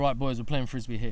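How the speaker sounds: plain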